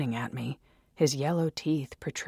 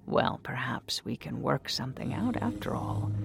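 sly shopkeeper. Acted.

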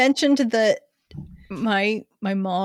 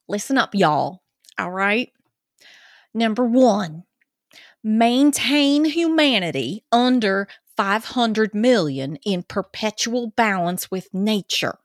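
put-on Georgia accent. Co-host reading Ten Commandments to listeners, Georgia accent. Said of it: "do this in Georgia accent".

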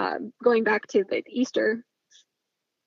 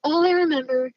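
whispering; 5 semitones higher, 4 dB louder than usual. Retold or imitated. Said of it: "this is what he tells me".

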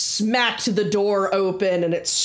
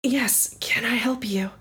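tag barkeeper; 3 semitones higher than usual. Acted. Plays young barkeeper greeting customer.

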